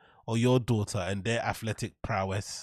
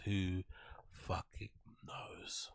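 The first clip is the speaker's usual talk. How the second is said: whispered aside; 4 semitones lower, 11 dB quieter, much slower than usual. Real, not acted. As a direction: whisper "fucking knows" under breath.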